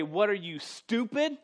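"stupid?" jumps high, incredulous; mock insult. Preacher voices a rude retort to his wife, mock incredulous. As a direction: scoff at someone as if to his wife. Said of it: "and I would say".

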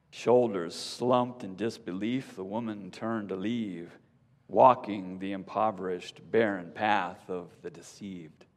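ordinary talk

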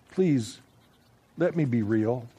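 soft plea fading away; quiet, fading whisper of a plea; trailing off. A narrator's reading. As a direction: let the voice die away as she begs. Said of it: "her voice trailed off".

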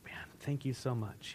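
whispered, overwhelmed thanks; hushed grateful. Retold or imitated. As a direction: whisper it low, barely voiced. Acting a grateful employee given a raise.

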